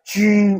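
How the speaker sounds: long drawn-out mild mock shriek; imitated shriek. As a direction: imitate a distant scream, held back. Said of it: "इतनी तेज आवाज आई ना". (हल्की, खिंची हुई चीख की नकल)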